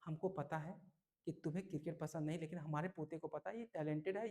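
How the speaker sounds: put-on soft, gentle grandfather defending the boy; दयालु दादाजी. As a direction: calmly soothe the angry father. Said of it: "दयालुता पूर्वक बोला कि बेटा". (दयालुता से, धीमी नरम आवाज़ में दादाजी)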